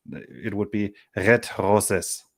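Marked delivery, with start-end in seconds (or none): 1.2-2.2 "red roses" slowly, read as German; slow, thick German accent on "red roses"; German pronunciation. Shown as a demonstration. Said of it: "pronounce it in".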